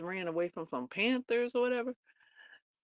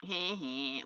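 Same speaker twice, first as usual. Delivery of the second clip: understated smirky snicker; smirking; 2 semitones lower, 3 dB quieter than usual. Retold or imitated. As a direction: imitate a smug little smirk of a laugh. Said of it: "like, smirking".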